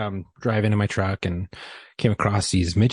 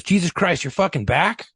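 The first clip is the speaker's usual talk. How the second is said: higher-pitched mock disbelief; exasperated bartender; 6 semitones higher than usual. Bartender to the returning drunk, exasperated disbelief. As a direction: greet an unwelcome regular with incredulity.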